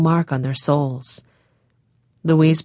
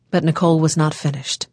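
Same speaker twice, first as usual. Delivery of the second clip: plain reading voice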